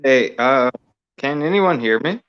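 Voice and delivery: crappy phone audio; tinny phone line sound; over the phone. Real, not acted. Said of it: "So I'm on my phone right now".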